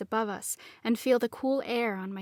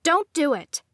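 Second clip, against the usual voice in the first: urgent, higher, louder warning; the nagging voice in her head pleads; arguing inner voice; 6 semitones higher, 5 dB louder than usual. A narrator's reading. Inner voice warns narrator, urgent and raised. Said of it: "the dominant voice argued".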